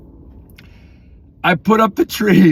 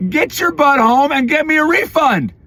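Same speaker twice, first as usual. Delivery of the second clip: raised, scolding command to son; higher, firm father telling son off; stern dad order; 6 semitones higher than usual. Retold or imitated. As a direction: bark it at the kid. Father ordering sick son home.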